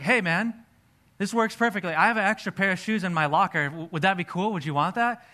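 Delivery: offering a gift with excitement; eager offer. Retold or imitated. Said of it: "So I was like".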